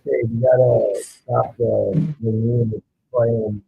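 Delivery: muffled tin can phone line. Real, not acted. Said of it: "sounds like you're talking through a tin can right now".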